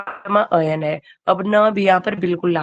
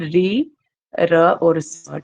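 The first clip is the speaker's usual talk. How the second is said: slow spelled-out letters; much slower than usual. Shown as a demonstration. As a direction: spell out the letters very slowly, one at a time. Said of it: "कौन कौन से हैं तीन शब्द". (अक्षर बहुत धीरे-धीरे)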